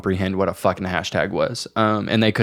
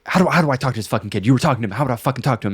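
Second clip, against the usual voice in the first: rapid-fire angry mom imitation; imitated angry mom; 2 semitones higher, much faster than usual. Mom cussing at her kid over the scam, retold angrily. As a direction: rattle it out like a cross, cussing mother. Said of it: "she was angry".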